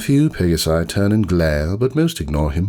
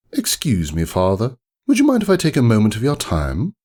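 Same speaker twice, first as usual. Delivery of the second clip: polite sales pitch; 3 semitones higher than usual. Retold or imitated. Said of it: "Laughable. sales ponies".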